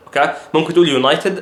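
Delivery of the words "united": "United" with the T clearly sounded; hard T. Shown as a demonstration. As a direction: say "United" as "you-NAI-ted", T intact. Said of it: "ما تحاولش تتك على التي". (كلمة "United" بنطق التاء كاملة)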